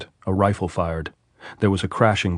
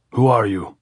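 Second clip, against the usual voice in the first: a louder call from the parapet; 3 semitones higher, 4 dB louder than usual. A narrator's reading. Sentry demanding Andres' name, calling out. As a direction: demand who is there.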